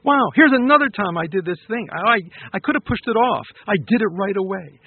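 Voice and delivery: lightly acted self-congratulation; celebrating. Speaker models praising yourself for acting right away, lightly celebrating. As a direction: congratulate yourself with mild, emphatic wonder. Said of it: "if you celebrate every positive action".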